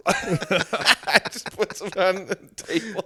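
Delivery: high, very slow put-on Australian voice; mock Australian accent. Quoting the Finding Nemo dentist to friends in a mock Australian accent. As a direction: drag it out like the cartoon dentist.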